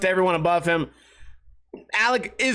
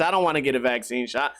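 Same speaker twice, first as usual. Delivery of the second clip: normal talking voice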